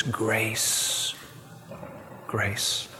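slow, soft and low, letting the word land; soft tender grace. Acted. Preacher softening to the congregation on grace.

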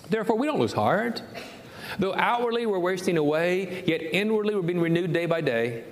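full-force preaching. Acted. Pastor proclaiming Paul's words to the congregation, preaching at full force. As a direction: lift it up and proclaim it.

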